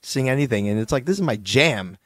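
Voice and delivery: hoarse, worn-out voice; talking with no voice left; lost voice. Real, not acted. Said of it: "I have no voice".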